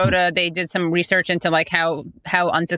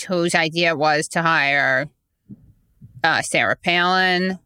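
Steve Schmidt voice. Retold or imitated. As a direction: drag the words out in a toned-down Steve Schmidt accent. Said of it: "who talks like this".

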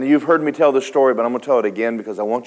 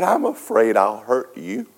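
tearful confession. Retold or imitated. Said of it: "And I began to cry".

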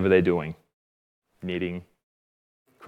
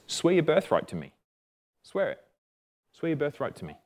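soft, higher, insistent urging; quiet pressing; 3 semitones higher, 7 dB quieter than usual. Acted. Jacob presses Esau as he is about to break, quietly insistent. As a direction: press him in a lowered voice, pausing between demands.

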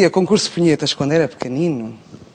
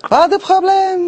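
high, slow, hammed-up French; French chef; 13 semitones higher, 4 dB louder, much slower than usual. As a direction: sing it out like a cartoon French chef. Host answers in mock French. (francês exagerado e agudo)

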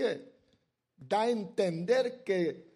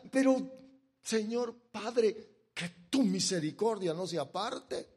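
retold prayer; 3 semitones higher than usual.

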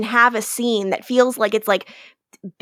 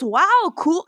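put-on higher, half-hearted British accent; attempted British accent; 6 semitones higher than usual. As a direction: have a failed go at his British accent. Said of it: "I can't even do his accent".

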